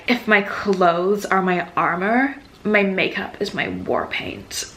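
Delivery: slow, lightly mocking recital; mock-dramatic quote. Reviewer quoting a cliche heroine line, mildly mock-dramatic. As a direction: drag it out as a hammed-up book line.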